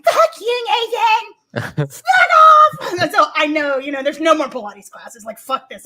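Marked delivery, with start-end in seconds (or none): 0.0-3.0 mock yell. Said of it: "I just started going".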